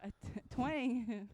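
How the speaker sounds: drawn-out twang. Shown as a demonstration. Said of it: "drawn-out reading of word".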